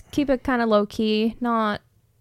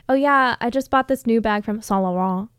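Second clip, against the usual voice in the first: overdone French. Retold or imitated. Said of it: "pronounce designer names obnoxiously".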